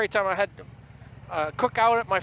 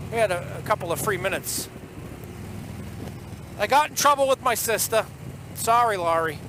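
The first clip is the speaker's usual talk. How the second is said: put-on thick Boston accent storytelling. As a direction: tell it like a Bostonian. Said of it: "in nothing but the Boston accent for ya".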